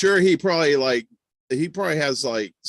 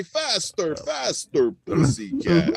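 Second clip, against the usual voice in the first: put-on Russian accent; slower than usual. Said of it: "every time I do a Russian accent".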